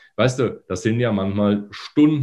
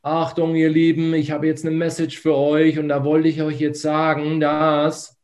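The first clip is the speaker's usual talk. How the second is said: worn-out voice; 8 semitones higher than usual. Shown as a demonstration. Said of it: "ich bin jetzt so abgeschlafft".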